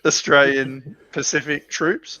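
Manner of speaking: drawn out like a wish list item; wishful emphasis. Real, not acted. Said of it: "Christmas wish".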